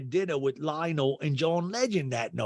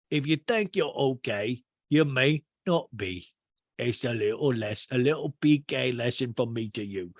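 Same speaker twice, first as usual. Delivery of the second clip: P K. Retold or imitated. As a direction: imitate a man drawing out his lesson. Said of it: "P K goes".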